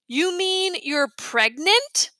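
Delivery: stunned question. A narrator's reading. Boy stunned by news.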